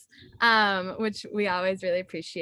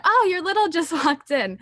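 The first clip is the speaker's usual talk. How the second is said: high, loud, giggly retelling of eager friends; excited friends; 9 semitones higher, 6 dB louder than usual. Retold or imitated. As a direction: imitate giddy sorority sisters with a laugh. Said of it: "everyone came up to me and was like".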